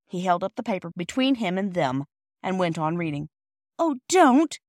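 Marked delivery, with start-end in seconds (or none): 3.8-4.6 high, loud wail of protest; despairing. A narrator's reading. Girl begging the offended porter, despairing and high. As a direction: plead like a distraught child. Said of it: "said Phyllis in despair".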